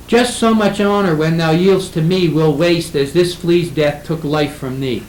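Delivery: measured reading of verse, slowing at the end; poetry recitation. Shown as a demonstration. Lecturer quotes a line that breaks up, reciting. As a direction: declaim the verse to the class.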